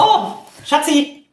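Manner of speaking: calling out high and drawn out; yelling across the room. Real, not acted. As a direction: call her in from the next room. Calling wife from another room.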